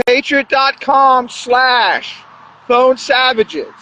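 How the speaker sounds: sponsor plug. Acted. Vlogger pushing his link to viewers, a casual ad read.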